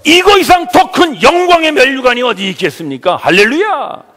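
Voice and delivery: loud, high full-force sermon; fervent preaching. Real, not acted. Pastor crowning his point to the congregation, fervent preaching. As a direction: ring it out like a rallying preacher.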